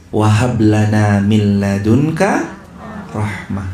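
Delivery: slow chanted Arabic recitation; Quranic recitation. Acted. Preacher recites the verse to the congregation, chanted slowly. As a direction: intone the verse slowly and melodically.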